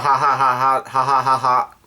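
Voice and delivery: mock "ha ha ha" cries; imitated yelling. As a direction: chant out a string of half-hearted ha's. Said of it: "she yells out".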